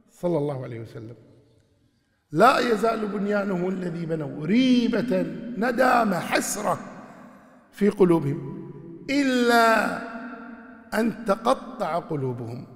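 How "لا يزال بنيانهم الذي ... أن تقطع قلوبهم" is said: louder, drawn-out chant of the verse; impassioned tajweed, stretching إلا; fervent Quran recitation. Acted. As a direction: lift the recitation with feeling.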